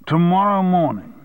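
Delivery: incredulous echo, pitch jumping up; surprised. Acted. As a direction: repeat it as if caught off guard. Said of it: "said Armstrong".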